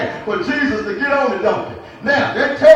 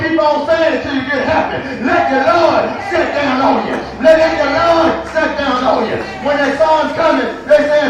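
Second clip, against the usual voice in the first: fervent preaching; 2 semitones higher than usual. Acted. Pastor pleads with the congregation, preaching fervently. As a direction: call it out to the church.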